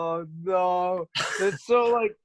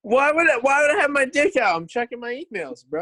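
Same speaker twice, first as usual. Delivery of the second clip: high, indignant protest in a put-on role; Connor; 5 semitones higher than usual. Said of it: "this is my impression of Connor checking his email".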